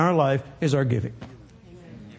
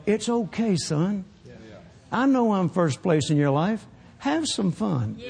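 gentle fatherly voice. Retold or imitated. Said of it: "God letting me know".

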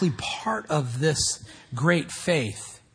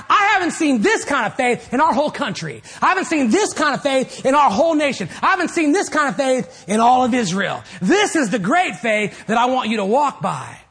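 raised, emphatic teacherly amazement; impassioned marvelling; 6 semitones higher, 3 dB louder than usual. Retold or imitated. Jesus praising great faith to his students, impassioned. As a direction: build the repeats with insistent emphasis.

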